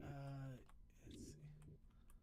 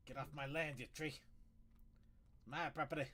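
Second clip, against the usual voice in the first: mock angry shout; 2 semitones higher, 5 dB louder than usual. Yelling at a tree in game.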